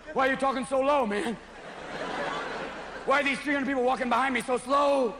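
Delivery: edgy and suspicious; paranoid golfer. Retold or imitated. Coked golfer snapping at the commentator, jittery.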